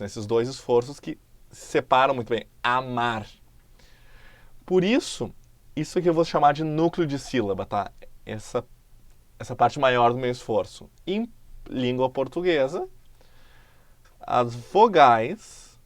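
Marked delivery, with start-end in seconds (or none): 2.6-3.3 amar drawn out syllable by syllable; syllable demo. Shown as a demonstration. Teacher demonstrating syllables slowly. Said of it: "isso soa mais forte no meu esforço". 14.2-15.8 "as vogais" stretched out slowly and loud; slow emphasis. Shown as a demonstration. Teacher stressing the vowels for students. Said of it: "são núcleo de sílaba".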